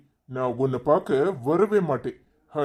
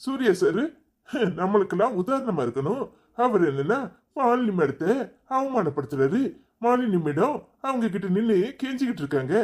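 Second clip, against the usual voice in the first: higher-pitched sneering imitation of gossips; mocking gossiping onlookers; 5 semitones higher than usual. Husband mocks how onlookers will gossip, in a higher sneering voice. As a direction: mimic the crowd mockingly, pitched up. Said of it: "அப்படின்னு பேசணும்".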